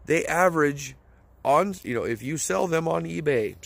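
talking while walking with the phone; shaky handheld phone. Real, not acted. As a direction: voice jostled by a shaking phone. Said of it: "sorry for the shaking, I'm holding my phone".

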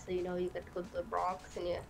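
put-on New York accent. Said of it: "I can kinda do New York".

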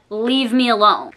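mean and serious. Retold or imitated. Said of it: "I was, like, mean".

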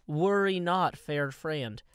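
hammed-up heroic address to the viewer; mock grand monologue. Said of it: "I'm trying to monologue here".

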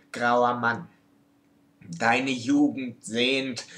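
measured poem reading with pauses between phrases; poem recitation. Acted. Reciting their own love poem to viewers, poem recitation.

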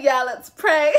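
quoting her through a laugh and a near-cry; laughing so hard it almost sounds like crying; laughing quote. Retold or imitated. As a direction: say it while cracking up. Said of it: "She said".

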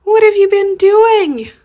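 slow squeaky scolding of the kittens; high mock scold. Real, not acted.

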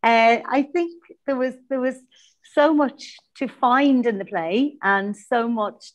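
echoey empty classroom. Real, not acted. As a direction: echo from a bare room. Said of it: "I'm echoey".

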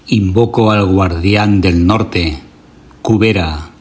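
solemn chant-like recitation in measured phrases; ritual invocation. Acted. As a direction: invoke the gods firmly, pausing for listeners to repeat. Leads a repeat-after-me ritual invocation.

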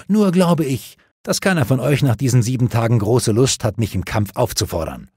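lightly voiced amused king; knight voice. Arthur voiced in story.

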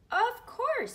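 put-on very high, loud girl voice; proud little girl; Lily voice.

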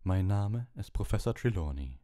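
a lightly voiced otherworldly divination teacher; a hint of a mysterious seer, unhurried at the end; dreamy seer. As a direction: speak as if half in another world. Trelawney's held voice.

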